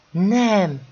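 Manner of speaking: high, loud cry of refusal; narrated shriek. A narrator's reading. Méri refuses the servant's question, crying out high and loud. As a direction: let the word leap up loudly, as an acted shriek. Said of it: "sikoltotta Méri".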